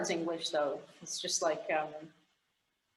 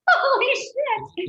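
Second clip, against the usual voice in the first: high, loud, stretched-out exclamation; astonished exclamation; 6 dB louder, much slower than usual. Real, not acted. Expat stunned by her long absence, astonished outburst. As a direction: let it burst out high and drag it. Amazed at how long away.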